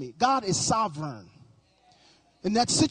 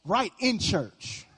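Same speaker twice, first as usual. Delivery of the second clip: slow sly aside; much slower than usual. Shown as a demonstration. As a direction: let "Right in church" slip out slow and knowing. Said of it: "check your Facebook right now".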